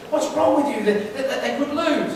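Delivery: high, agitated imitation of a worried fan; worked-up spectator. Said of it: "she's getting all worked up".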